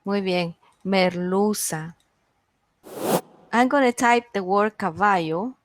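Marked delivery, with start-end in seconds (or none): 0.8-2.0 merluza said slowly with stress on lu; slow merluza, leaning on the middle syllable lu; stressed-syllable demo. Shown as a demonstration. Teacher confirming the answer for students, slow merluza stressed on lu. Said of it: "¿Cuál es la sílaba tónica?".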